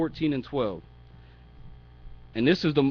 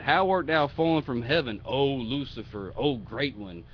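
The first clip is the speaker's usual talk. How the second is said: biblical sarcasm. Acted. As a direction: hail him as if great, lightly mocking. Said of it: "This is biblical sarcasm".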